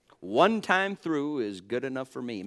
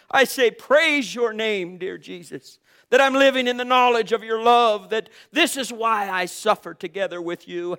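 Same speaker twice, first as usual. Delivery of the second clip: raised, exultant preacher's prayer; fervent preached praise; 6 semitones higher, 7 dB louder than usual. Real, not acted. Preacher praising Jesus for suffering together, fervent and exultant. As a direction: pour out praise in a high preaching voice.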